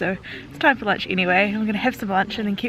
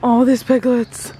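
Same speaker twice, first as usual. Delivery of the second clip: delighted gasp; 2 semitones higher, 5 dB louder, slower than usual. Real, not acted. Spotting piglets, gasp.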